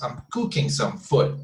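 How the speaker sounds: COOKING and FOOD leaned on, SOME kept light; emphasis on two words. Shown as a demonstration. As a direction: exaggerate the stress on "cooking" and "food" a little. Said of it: "emphasize more on these two words".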